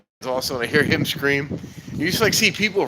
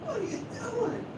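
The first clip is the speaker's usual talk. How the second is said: high mock yell in a quiet voice; imitating Eric's yell; 9 dB quieter than usual. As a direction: squeak Eric's line up high. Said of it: "an old Eric reference".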